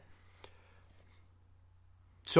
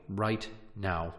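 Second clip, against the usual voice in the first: faltering tender eulogy=69. Acted. Mock funeral eulogy continues.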